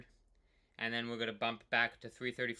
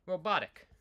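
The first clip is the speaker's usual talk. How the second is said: lightly mechanical, high and punchy robot word; 8 semitones higher, 5 dB louder than usual. Pretend. Rider mocking his own steady pedalling, light robot voice. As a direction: say it like a machine, in fun. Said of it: "It's like a robot".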